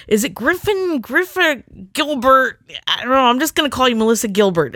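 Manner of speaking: high, fast imitation of the unsure teacher; high mock teacher. Teacher guessing her surname, mock high and fast. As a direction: play the teacher giving up on the name. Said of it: "He's like".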